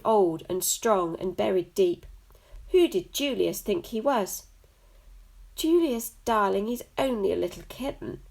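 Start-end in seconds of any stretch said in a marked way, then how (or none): 5.5-8.2 high sugary coo. Acted. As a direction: coo it like warm milk in the morning. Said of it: "cooed Jasmine in her milk in the morning kind of voice".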